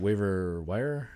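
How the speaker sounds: slow, puzzled echo of jargon; imitated cluelessness. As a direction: imitate a wife puzzling over the term. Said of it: "Anything she has no clue about".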